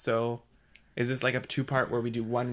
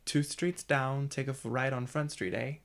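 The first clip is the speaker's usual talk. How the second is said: learner's tentative Canadian accent, slowly begun; slower than usual. Shown as a demonstration. Learner copying the coach's directions line, Canadian accent. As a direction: try out a careful Canadian accent. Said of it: "in a Canadian accent".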